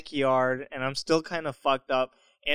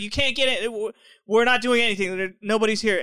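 lightly voiced protesting girl, pitched up; a hint of frantic denial in a higher voice; 6 semitones higher, faster than usual. Another girl keeping cops out at the gate, lightly mocked protest.

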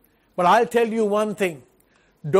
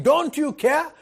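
mock complaint; 7 semitones higher than usual. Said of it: "we start shouting".

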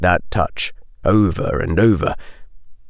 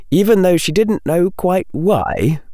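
ordinary delivery, nothing marked

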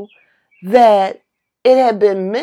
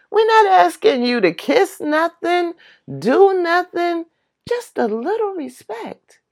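raised voice; 10 semitones higher than usual. Retold or imitated. Echoing a singer's line, raised pitch.

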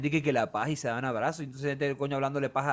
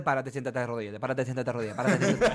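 mock priest's orders, giggling; laughing mock mass orders; 4 semitones lower than usual. Mocking the endless stand-sit-kneel at mass, laughing. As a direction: reel off the mass commands while laughing.

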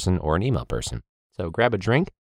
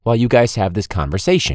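raised, higher sideline call; calling to the ref; 5 semitones higher, 3 dB louder than usual. Retold or imitated. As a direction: project it across the field, asking. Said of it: "a simple request from me on the sideline".

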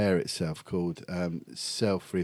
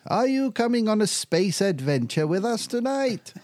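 high sing-song alien host; alien frontman voice; 12 semitones higher, 3 dB louder than usual. Retold or imitated. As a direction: invite them aboard like a stage alien. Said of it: "He's all like that".

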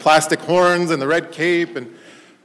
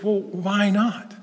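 puzzled dad; 6 semitones higher, much slower than usual. Retold or imitated. Puzzled dad asks the boy.

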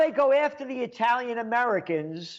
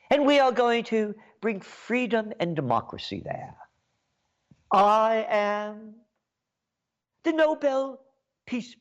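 mock Obama. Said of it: "You say".

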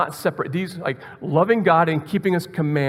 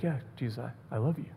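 very soft, lowered voice; intimate reply; 5 semitones lower, 12 dB quieter, faster than usual. Acted. Peter answering Jesus, hushed and intimate. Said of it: "this very intimate conversation".

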